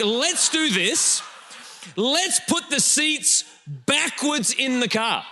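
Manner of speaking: slow, put-on voice of a proud inventor; mock Swedish designers. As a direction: lightly play the carmakers pleased with their idea. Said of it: "the Swedish people are like".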